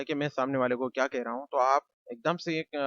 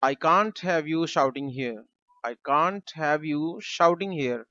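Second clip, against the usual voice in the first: slow model sentence; much slower than usual. Shown as a demonstration. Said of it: "हम कहेंगे".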